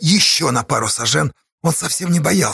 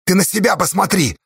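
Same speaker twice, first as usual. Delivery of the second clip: heated yelling; 6 semitones higher than usual. Acted. Arguing on cliff face.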